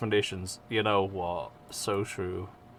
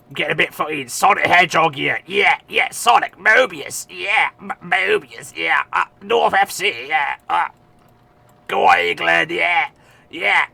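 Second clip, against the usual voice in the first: hyped; 5 semitones higher, 5 dB louder than usual. Real, not acted. Hyped rant about Sonic.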